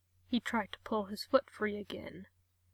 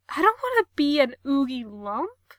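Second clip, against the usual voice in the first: louder, rising panicked whine; 3 semitones higher, 6 dB louder than usual. Acted. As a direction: whine in fear.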